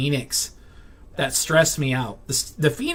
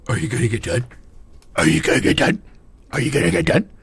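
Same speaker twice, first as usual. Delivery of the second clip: a lightly voiced nagging pest, repeated; lightly mocking coworker badgering; 4 semitones lower, faster than usual. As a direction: parody someone hovering and pestering. Imitating coworker nagging over shoulder.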